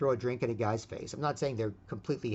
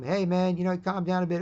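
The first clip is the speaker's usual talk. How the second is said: acted friendly approach; 5 semitones higher, 4 dB louder than usual. Talking down the drunk.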